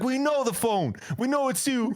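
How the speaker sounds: high, pressing mock accusation. To the thief, a pressing high accusation. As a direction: corner him with it.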